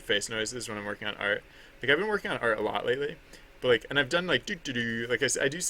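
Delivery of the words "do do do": little doodling vocal noise; silly nonsense noise. Shown as a demonstration. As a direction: demonstrate an idle, silly do-do-do. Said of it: "making, like, stupid noises".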